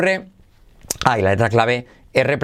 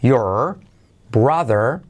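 "does", "your", "brother" drawn apart; slow, careful "does your brother" with full R sounds; word-by-word "does your brother"; separated words; much slower than usual. Shown as a demonstration. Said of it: "Por separado así".

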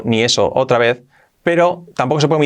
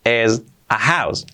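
slow demo; slower than usual. Shown as a demonstration. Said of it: "Si decimos esto es una casa".

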